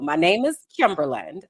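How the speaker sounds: Kimberlyn said clearly like England; careful name demo; saying her name right. Shown as a demonstration. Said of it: "So this is the tutorial".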